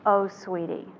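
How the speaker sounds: "Oh, sweetie" ile yumuşak, üzgün bir iç çekiş; empathetic "oh sweetie". Shown as a demonstration. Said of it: "the empathetic statement is".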